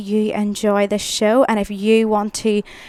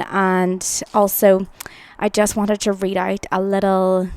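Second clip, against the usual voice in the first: breathless, catching her breath; 3 dB louder than usual. Real, not acted. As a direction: talk while still winded. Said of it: "sorry, I'm out of breath".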